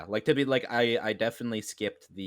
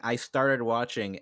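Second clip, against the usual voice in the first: slow mocking quote; much slower than usual. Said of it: "you open by saying".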